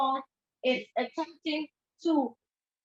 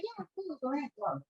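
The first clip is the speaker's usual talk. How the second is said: fake casual; 3 semitones higher, 6 dB quieter than usual. Partner feigns being okay.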